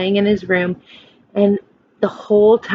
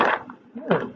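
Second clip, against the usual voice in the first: plain reading voice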